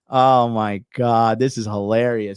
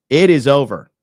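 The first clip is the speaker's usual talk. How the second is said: emphatic; 7 dB louder than usual. Real, not acted. Emphatic verdict after repeat.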